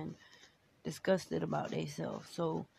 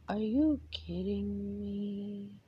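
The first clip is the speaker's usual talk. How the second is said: incredulous; 2 semitones higher, much slower than usual. Retold or imitated. Incredulous reaction to his retold apology.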